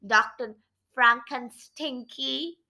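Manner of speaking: taunting, with the nickname stretched out; mock him, loud then slow on the name; lightly voiced taunt; teasing. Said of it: "he teased Grandpa".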